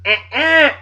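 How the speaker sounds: high-pitched buzzer-style uh-uh; mock wrong-answer buzzer.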